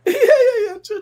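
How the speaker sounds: high, excited yeah yeah. Real, not acted. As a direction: squeal it out with glee.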